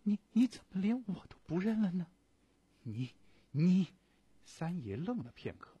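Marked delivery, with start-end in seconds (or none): 0.0-3.9 high, fast tearful cry. A narrator's reading. Visitor cries out to friend who rejects her. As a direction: break down and plead through tears. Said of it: "忍不住失声哭泣道".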